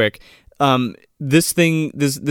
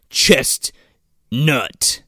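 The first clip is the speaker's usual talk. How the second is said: "Chest... nut?" with a long pause between; deadpan question, "Chest" then "nut" set apart; puzzled questioning. Retold or imitated. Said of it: "question mark".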